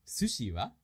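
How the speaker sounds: natural-paced short question; full speed. Shown as a demonstration. Teacher rereading a sample conversation at full speed. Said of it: "read that at a full speed".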